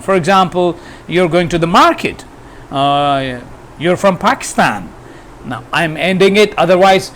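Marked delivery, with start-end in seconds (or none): 1.1-2.2 statement turned question, pitch climbing on "market"; rising intonation on "market". Shown as a demonstration. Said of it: "higher at the end". 3.8-4.9 statement asked as a question, lifting "Pakistan"; questioning rise on "Pakistan". Shown as a demonstration. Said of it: "higher at the end".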